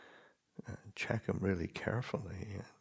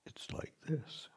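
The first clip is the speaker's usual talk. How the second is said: hushed and higher, let it land gently; whispered teaching phrase; 8 semitones higher, 5 dB quieter than usual. Shown as a demonstration. Meditation teacher quoting his master's phrase, whispered. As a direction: breathe the phrase out like a mantra. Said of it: "Luang Por Sumedho's recurring teaching phrase".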